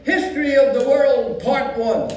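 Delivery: put-on old Yiddish grandpa accent; a creaky old Jewish man, kvetching.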